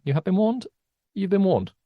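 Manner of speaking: a sweet, mild caution; nicest warning. Real, not acted. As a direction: warn them as nicely as possible. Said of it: "nicest way anyone has ever said".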